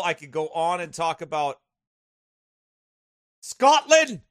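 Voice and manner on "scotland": loud, high call-out; high, delighted shout; excited exclamation. Real, not acted. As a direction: burst out with the place name. Exclaims a remembered favorite trip.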